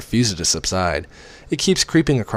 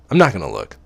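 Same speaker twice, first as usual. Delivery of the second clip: "I'm not gonna look" pushed louder with stress on not; stubborn self-command, louder; firmer, louder; 5 dB louder than usual. Acted. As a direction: insist on it louder this time, leaning on "not". Repeats resolve more firmly.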